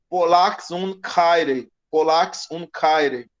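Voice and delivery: slow, careful Greek reading "Polax un kaire", each syllable spelled out; Greek read slowly. Shown as a demonstration. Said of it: "teacher reads Greek phrase aloud". (leitura lenta e cuidadosa de "Polax un kaire")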